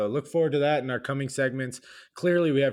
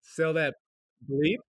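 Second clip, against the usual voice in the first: spoken bleep; 3 semitones higher, slower than usual. Shown as a demonstration. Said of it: "We just say bleep because".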